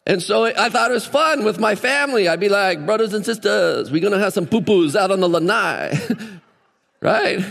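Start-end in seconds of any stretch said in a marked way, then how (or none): 2.9-6.0 playful put-on Hawaiian islander accent; jokey Hawaiian local lilt; Hawaiian pidgin accent. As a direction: lightly imitate Hawaiian pidgin for the family. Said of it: "I don't talk like that ever".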